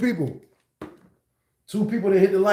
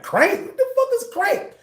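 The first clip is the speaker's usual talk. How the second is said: baffled disbelief. Retold or imitated. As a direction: pitch leaps way up, incredulous. Confused by unfamiliar slang.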